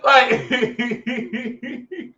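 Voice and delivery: high, helpless laughter; real laughter breaking up the words; laughing. Real, not acted. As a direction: try to talk through a laughing fit. Laughs at own Adam impression.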